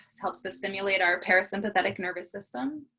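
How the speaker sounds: unhurried body-scan guidance with long pauses; guided meditation. Acted. Teacher leading a morning body scan, guided meditation. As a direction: guide them gently into the breath, leaving space between phrases.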